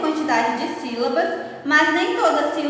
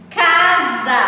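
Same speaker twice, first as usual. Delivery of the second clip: "Casa" in two loud beats, ca, sa; syllable by syllable; 7 dB louder than usual. Shown as a demonstration. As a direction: hit both syllables of "Casa" firmly. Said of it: "duas sílabas". ("Casa" forte, em duas sílabas)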